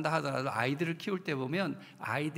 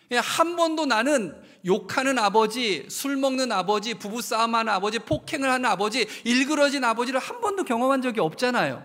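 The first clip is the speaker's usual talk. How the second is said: impassioned preaching; 5 semitones higher, 6 dB louder than usual. Acted. Pastor preaching loudly to the congregation. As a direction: hammer each kind of father.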